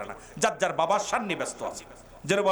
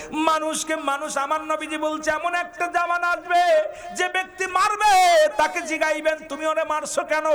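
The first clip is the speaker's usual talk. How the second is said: high, ringing prophetic warning; impassioned preaching; 10 semitones higher, 5 dB louder than usual. Real, not acted. Preacher warning of a murderous age, high and fervent. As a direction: sustain a raised cry through each phrase.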